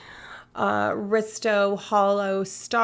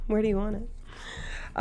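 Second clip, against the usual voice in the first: softer and slower, rising on "Where do you want it?"; softer, slower ask; 6 dB quieter, slower than usual. Real, not acted. Asking chat where to put the sticker, softer and slower with a rise. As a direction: ease off and let "Where do you want it?" lift at the end.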